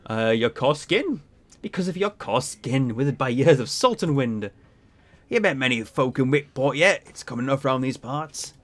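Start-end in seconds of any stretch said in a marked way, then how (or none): 1.6-8.5 lightly voiced seafaring captain; salty ship captain. Captain answers a stranger in the bar, lightly salty. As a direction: play a proud old sea dog, a little put on.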